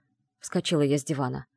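ordinary delivery

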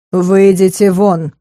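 slow, firm order; the rector ordering them out, commanding. Acted. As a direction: lay down the order, no room to argue. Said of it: "приказал Фелис".

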